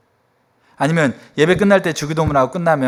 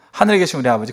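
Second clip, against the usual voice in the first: quick run-through of the prayer; rote recitation; faster than usual. Retold or imitated. Congregant asked to recite the Lord's Prayer, by rote. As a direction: reel it off as a memorised formula. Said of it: "예수님은 기도문을 가르치는 게 아니라 기도를 가르치셨어요".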